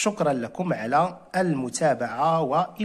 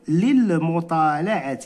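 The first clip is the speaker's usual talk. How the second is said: slow model reading. Shown as a demonstration. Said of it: "إذا شنو غنقولوا؟".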